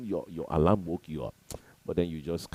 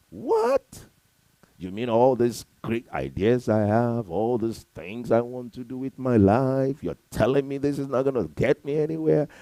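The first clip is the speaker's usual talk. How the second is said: much higher, louder incredulous outburst; loud high-pitched mock outrage from a doubting listener; shocked disbelief; 7 semitones higher, 7 dB louder than usual. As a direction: cry out as the stunned listener who can't believe it. Voicing a shocked listener's objection.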